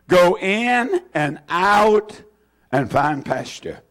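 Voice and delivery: slow, word-by-word recitation; slow group recitation. Shown as a demonstration. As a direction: say it together, weighing each word. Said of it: "Would you say them again?".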